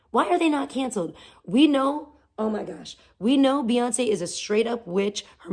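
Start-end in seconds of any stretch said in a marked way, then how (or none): 0.1-1.1 high, quick, pushed-out repeat; fast indignant demand. Real, not acted. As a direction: fire it off as a demand. Repeats outraged question.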